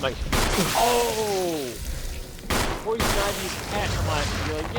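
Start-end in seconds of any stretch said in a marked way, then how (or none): 0.8-3.9 high-pitched, drawn-out "oh" as it clicks; retold sudden realization. Friend retelling when Frank's identity hit him, suddenly realizing. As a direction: replay the penny dropping, pitched up.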